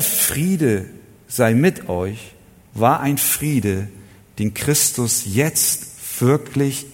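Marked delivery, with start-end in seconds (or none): 0.0-2.3 langsam, getragen und würdevoll; feierlicher Gruß. Retold or imitated. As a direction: den Gruß bedeutungsschwer entfalten. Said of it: "Sondern dieser". (feierlicher Friedensgruß statt Alltagshallo)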